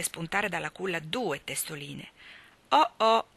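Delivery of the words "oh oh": a loud, high "Oh, oh!" of surprise; surprised exclamation. A narrator's reading. Father sees two babies in the cradle, loud surprised exclamation. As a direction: exclaim it, caught off guard. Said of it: "esclamò".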